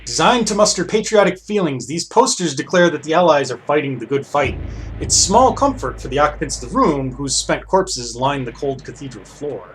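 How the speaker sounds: measured read-aloud of game text; story narration. Acted. Player reads the guard scene aloud, narrating.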